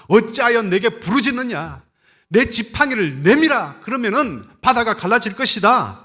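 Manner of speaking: high, loud proclamation of a divine command; God answers Moses' cry with a loud, high command. Acted. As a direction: boom it out like God speaking from above. Preacher voices God commanding Moses.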